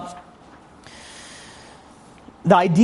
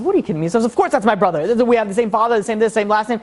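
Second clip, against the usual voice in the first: higher-pitched retold protest; indignant disbelief; 5 semitones higher than usual. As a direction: act out mild exasperation at being doubted. Acted protest at being doubted.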